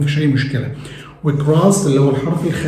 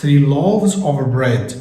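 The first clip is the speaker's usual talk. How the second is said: customer's reply, said very slowly; slow modelled answer; much slower than usual. Acted. Customer answering the baker, very slowly. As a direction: order the bread slowly and clearly. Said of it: "تقول له".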